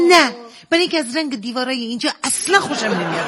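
quick, mock-exasperated comeback; irked retort. Wife answers husband's silly hospital question, irked sarcasm. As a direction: rattle off a sarcastic, irritated answer. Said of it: "لجم گرفته بود".

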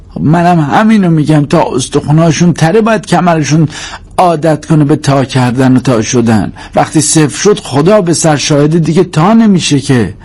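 high-pitched, insistent nagging; wife pressing her grievance; complaining wife. Acted.

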